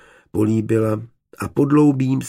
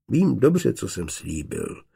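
a bit embarrassed. Acted. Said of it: "řekl trochu rozpačitě".

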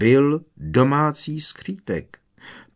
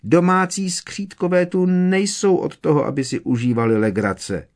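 very high, louder insistent squeak, stress on Domácí; emphatic elf; 10 semitones higher, 5 dB louder than usual. A narrator's reading. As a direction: declare it firmly, almost shocked. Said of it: "prohlásila Winky důrazně".

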